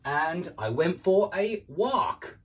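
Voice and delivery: slow American-style "walk" with an open ah; British speaker trying an American "walk"; American pronunciation. Shown as a demonstration. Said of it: "that does sound American to me".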